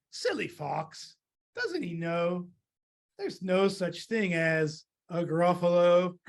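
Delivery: slow, amused scoff; knowing mouse. Acted. Mouse mocks the fox who ran away, slow and knowing. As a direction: draw it out as a private joke.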